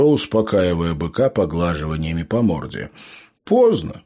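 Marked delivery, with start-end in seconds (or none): none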